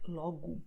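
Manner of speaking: logo ending in an "oo" sound; final O as U. Shown as a demonstration. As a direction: say the last O of logo as "oo". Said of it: "will be pronounced as U".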